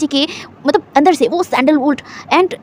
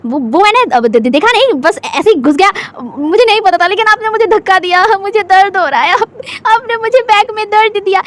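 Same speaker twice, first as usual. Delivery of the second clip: flustered stammer; 5 semitones higher than usual. Acted. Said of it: "अपने ही बातों में एकदम फंस गया था".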